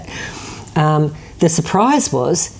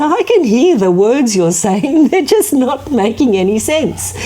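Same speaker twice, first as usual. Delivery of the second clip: exasperated shopper; 8 semitones higher than usual. Retold or imitated. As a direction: act out a customer at a total loss. Exasperated shopper acted in anecdote.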